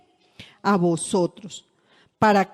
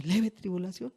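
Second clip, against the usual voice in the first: questioning echo; 5 dB quieter than usual. Retold or imitated. Anyone reacting to the apostle's words, soft doubtful question. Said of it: "Y uno dice".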